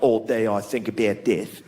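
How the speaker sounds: low, slow Australian goth; slightly drawn-out mock Australian accent; gloomy goth with an Australian accent. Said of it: "That guy can't go around like".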